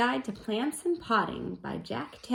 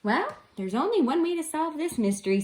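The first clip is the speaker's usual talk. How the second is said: Splat's voice; 5 semitones higher than usual. Acted. Splat's line voiced higher.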